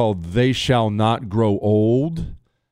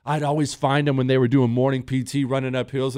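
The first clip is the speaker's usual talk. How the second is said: usual speaking voice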